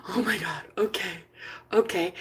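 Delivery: soft gasped reply; gasp, then answer quietly; small, touched acceptance; overcome and hushed. Retold or imitated. Retold breathless, touched reply.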